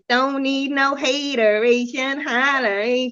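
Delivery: slow drawn-out quote of the singer; imitating a singer. Friend quoting a singer to shake off hate, slowed. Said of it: "I'll be like a singer".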